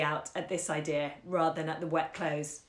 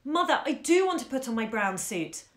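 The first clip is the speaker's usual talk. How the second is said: plaintive obstinacy; 5 semitones higher than usual. Acted. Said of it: "he said with plaintive obstinacy".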